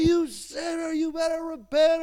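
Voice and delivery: high, loud street-preacher shout; mock yelling. Street preacher berating passers-by, mock yelling. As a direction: yell it like an accusing street-corner preacher. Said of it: "We don't yell at people and say".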